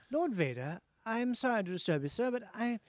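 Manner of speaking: a hint of a nervous Star Wars officer; lightly voiced Imperial officer. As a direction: report to Vader, lightly and sheepish. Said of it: "this character who was the guy from Star Wars".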